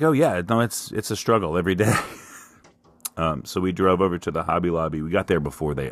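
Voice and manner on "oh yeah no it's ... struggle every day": deadpan teasing wife. Retold or imitated. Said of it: "And she's like".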